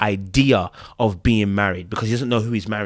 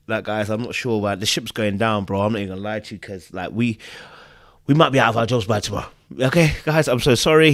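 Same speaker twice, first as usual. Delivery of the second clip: mock crying boss; 2 semitones lower than usual. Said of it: "He's crying".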